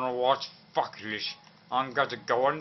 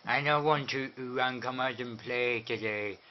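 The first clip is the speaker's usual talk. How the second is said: soft put-on character voice; playful character intro, quietly; Louis Lopez voice; 6 dB quieter than usual. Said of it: "it's me, Louis Lopez".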